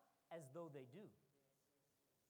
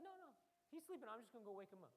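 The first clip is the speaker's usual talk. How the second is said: easy-going Jesus; 6 dB quieter, faster than usual. Retold or imitated. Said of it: "He's like".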